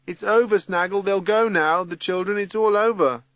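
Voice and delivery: Teggy's high voice. A narrator's reading. Teggy telling Snaggle it is all over, high-voiced. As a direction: announce the end in a high voice. Teggy reassures narrator after storm.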